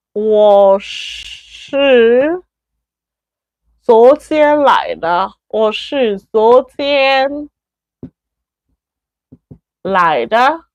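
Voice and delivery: slow, broken into chunks with long pauses; slow model sentence. Shown as a demonstration. Teacher drilling students, slow and chunked. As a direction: spell the sentence out piece by piece for learners. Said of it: "so it's like, you make an emphasis".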